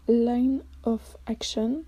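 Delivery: French speaker's careful English accent; English name in an earnest English accent. Real, not acted. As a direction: say it in your best schoolroom English accent. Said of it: "Magnifique accent anglais".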